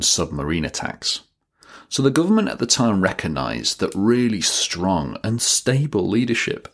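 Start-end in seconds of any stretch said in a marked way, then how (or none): 1.9-6.7 mock slogan voice. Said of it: "I'm joking".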